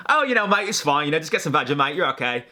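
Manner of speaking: high-pitched, hammed-up Aussie; bad Australian accent. YouTuber mimicking laid-back Aussies, bad Australian accent. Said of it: "it's my bad Australian accent".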